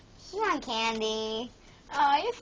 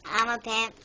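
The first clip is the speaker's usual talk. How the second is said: funny put-on voice; 2 semitones lower than usual. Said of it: "Don't laugh at my voice".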